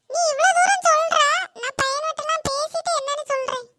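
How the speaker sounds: a lightly voiced reluctant schoolboy; boy agreeing to talk to the others; boy classmate.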